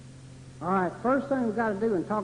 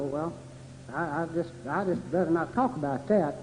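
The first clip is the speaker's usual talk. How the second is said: reluctant dodge; 3 semitones lower, 7 dB quieter than usual. Acted. Voicing someone avoiding the issue.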